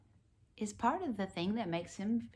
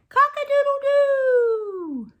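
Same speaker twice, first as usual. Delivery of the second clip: high loud rooster call; rooster crow; 12 dB louder than usual. Pretend. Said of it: "He can sound like a rooster".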